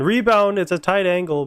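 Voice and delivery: sharp excited call of "Rebound.". Real, not acted. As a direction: jump on the loose puck. Excited call of live play.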